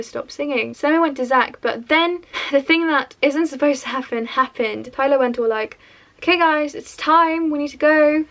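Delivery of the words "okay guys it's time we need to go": lightly imitated announcement to a group, raised pitch; mildly projected retold call; calling time. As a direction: round them up, a little louder. Staff member calls time, retold.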